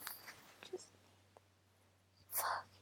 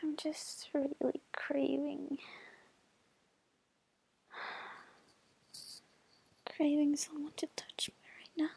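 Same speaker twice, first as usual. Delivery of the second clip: whispering. Real, not acted. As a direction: whisper close to the mic. Sultry whisper to listener.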